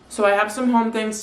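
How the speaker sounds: talking through a mouthful; words round a bite of croissant; mouth full. Real, not acted. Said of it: "I keep talking with my mouth full".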